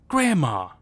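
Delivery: loud anguished cry of Grandma; panicked shout to her dad. A narrator's reading. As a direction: call it out loud and desperate. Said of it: "I shouted".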